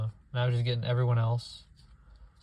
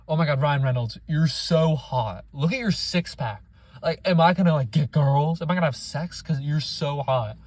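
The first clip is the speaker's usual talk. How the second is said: a lightly voiced starstruck kid, a bit louder; gushing kid fan; 3 dB louder than usual. Mocking the kid who fawns over Ryan Reynolds, gushing. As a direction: gush over him like an awestruck boy. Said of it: "The kid's like".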